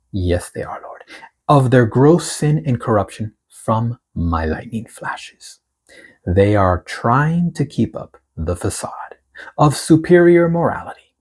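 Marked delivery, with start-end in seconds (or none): 1.5-11.1 slow, weighty reading of the Lord's words; prophetic proclamation. Acted. Reads the prophetic word aloud.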